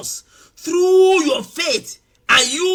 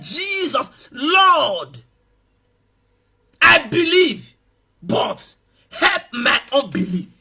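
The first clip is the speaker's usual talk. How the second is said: tearful plea; slower than usual. Acted. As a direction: beg the Lord through tears. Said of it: "with tears running out of his eyes and said".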